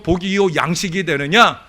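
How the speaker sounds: high, loud scriptural declaration; forceful preaching. Real, not acted. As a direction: hammer out each condition to the congregation. Preaches verse at full force.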